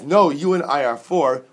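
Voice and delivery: a hint of a taunting spirit; mock voice of the shadim. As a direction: lightly voice the demon answering back. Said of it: "the voice of the Shadim".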